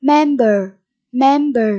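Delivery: "Member" stressed on MEM; stress on first syllable. Shown as a demonstration. Teacher modelling vocabulary for pupils, "Member" stressed up front. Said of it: "nhấn âm tiết số một".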